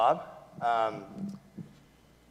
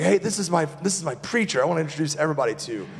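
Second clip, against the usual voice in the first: bright, fast, eager announcing; excited introduction; 5 semitones higher, 4 dB louder, faster than usual. Retold or imitated. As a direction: show off your preacher proudly. Proud church member introducing preacher.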